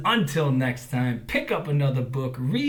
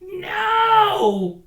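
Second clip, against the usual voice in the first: very high called no; crow calling out; 10 dB louder than usual. A narrator's reading. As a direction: call out warmly. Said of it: "called the crow".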